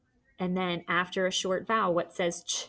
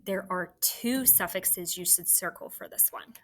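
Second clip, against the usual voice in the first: soft whisper, like a secret tip; teacher whispering the extra suffix clue; whispered hint; 6 dB quieter than usual. Real, not acted. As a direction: lean in and whisper the reminder.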